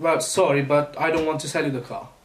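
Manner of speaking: ordinary delivery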